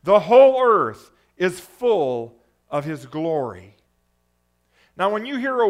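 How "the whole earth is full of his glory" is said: calling out. Acted. Preacher voices seraphim calling to one another, loud reverent calling. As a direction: proclaim it loudly, each holy ringing out and falling. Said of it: "they were calling to one another".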